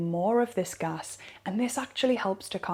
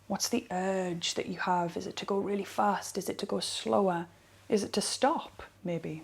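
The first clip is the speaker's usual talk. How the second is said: softly guiding questions; soft, calm practice-leader voice; guided practice; 6 dB quieter than usual. Acted. Teacher guiding listeners through rubbing their legs, softly guiding.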